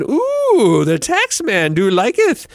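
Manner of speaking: high, slow mock French chef. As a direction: drawl it like a hammy French chef. Mock voice for the tax man.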